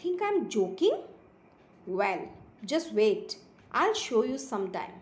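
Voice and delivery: slow, lilting storybook reading; story read-aloud. A narrator's reading. Teacher reading a kitten story to pupils, slow expressive narration. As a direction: read slowly with emphatic pitch swoops on key words.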